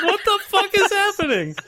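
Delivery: high, helpless laughing disbelief; laughing bafflement. Retold or imitated. Retelling watching the mouse cross the screen, laughing bafflement. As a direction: squeeze it out high through laughter.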